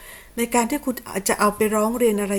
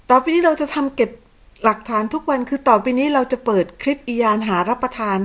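sarcastic mock quote; 3 semitones higher, 3 dB louder than usual. Streamer mocking her accuser's plan, higher, louder sneering quote.

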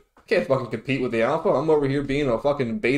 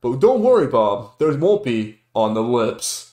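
smooth newscaster read to Bob; news anchor voice. Acted. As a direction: anchorman tossing to a co-host. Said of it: "news anchor".

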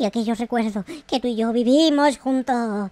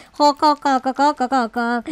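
mock villain laugh. Gloats while burning house in game.

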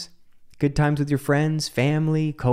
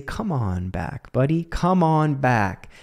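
gentle self-talk; slower than usual. Shown as a demonstration. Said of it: "And I say".

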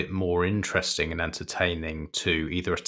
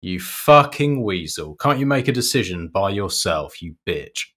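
mock annoyed insult; 2 semitones higher, 5 dB louder than usual. Salesman imagines berating an indecisive customer, mock angry. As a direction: spit out each insult in mock exasperation. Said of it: "really used to annoy me".

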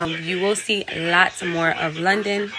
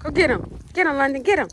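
urging a dog on; 5 semitones higher than usual. Real, not acted.

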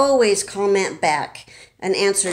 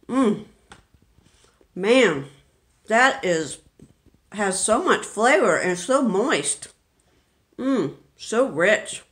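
chewing, relishing mmm; savoring delicious food. Real, not acted. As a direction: savor it, mouth full of rich brownie. Takes another bite, savoring it.

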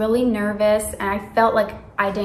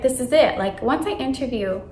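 excited self-confidence; 3 semitones higher, 3 dB louder than usual. Retold or imitated. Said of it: "I was, like, so excited".

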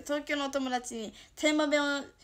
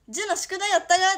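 mock quarrel; 7 semitones higher, 9 dB louder, faster than usual. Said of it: "喧嘩もするね".

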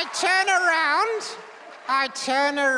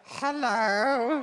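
deep dummy voice; 5 semitones lower than usual. Pretend. Dummy greeting the crowd.

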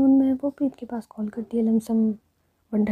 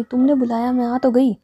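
louder, exasperated snap back at the friend; annoyed outburst; 7 dB louder than usual. Acted. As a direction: push it out, fed up. Annoyed friend defending herself.

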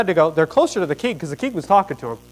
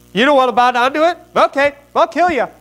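higher-pitched, offhand royal threat; threatening king; 9 semitones higher, 4 dB louder than usual. Acted. Acts king threatening captives.

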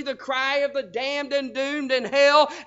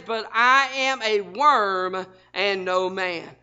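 lower, slow, grave reading; solemn quote; 5 semitones lower, slower than usual. Acted. Jesus speaks the psalm of himself, slow and grave. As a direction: read it low and heavy like scripture.

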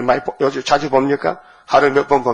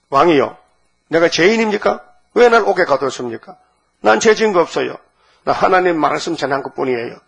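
pressing, higher-pitched challenge to the king; 3 semitones higher than usual. Acted. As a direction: argue back indignantly, pitch jumping on the questions. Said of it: "막 따지는 거예요". (왕에게 막 따지는 말투)

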